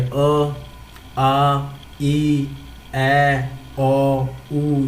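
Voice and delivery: अ, आ, ई, ए, ओ, ऊ each said slowly and clearly as a separate vowel sound; listing vowel sounds. Shown as a demonstration. Teacher to students, sounding out Hindi vowels one at a time. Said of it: "मात्रा हमारी कौन सी कौन सी होती है".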